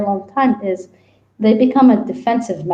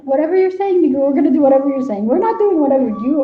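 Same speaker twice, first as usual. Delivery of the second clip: higher, hurried concession; mock giving in; 4 semitones higher, faster than usual. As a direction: give in quickly to an insistent character. Argues with character in her head.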